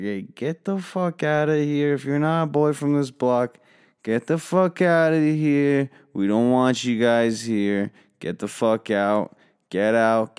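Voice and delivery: rowdy party host yelling everyone out; drunken yelling. Retold or imitated. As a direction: holler at the stragglers to get out. Drunk teen clearing out party.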